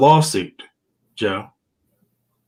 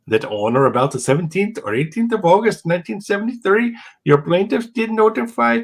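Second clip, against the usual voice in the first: put-on reading the lawsuit in a drifting Indian accent; 2 semitones higher than usual. Host reading a lawsuit aloud to his co-host, slipping into an Indian accent. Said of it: "I'm slipping into an Indian accent there".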